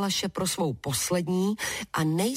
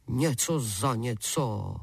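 giant offering a deal; 7 semitones lower, slower than usual. Acted. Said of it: "řekl obr".

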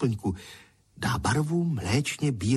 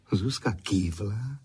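usual speaking voice

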